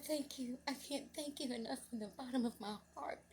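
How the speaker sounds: high, emotional thanks; tearful gratitude. Retold or imitated. Mother thanking the lady who helped her son, tearful. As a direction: give thanks as if near tears.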